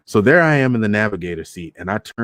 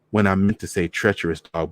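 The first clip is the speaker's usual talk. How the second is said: ordinary delivery, nothing marked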